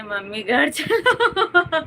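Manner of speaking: put-on slow child's plea through a laugh; laughing quote. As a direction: laugh while quoting the kids. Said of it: "अपनी mummy को कह रहे हैं". (हँसते हुए बच्चों की नकल)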